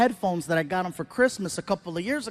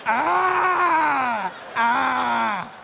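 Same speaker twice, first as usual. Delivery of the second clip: imitated teen laughing shouts; 2 semitones higher than usual. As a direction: bray like a teen laughing into headphones. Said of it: "This is what I hear".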